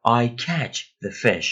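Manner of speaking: slow, carefully spaced English; slow example read. Shown as a demonstration. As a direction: read it out slowly for learners. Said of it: "teacher reads example sentence".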